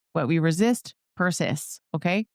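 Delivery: lightly put-on country twang; country accent. Coach playfully hands down a saying, country accent. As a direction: slip briefly into a country accent. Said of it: "I don't know why I needed a country accent".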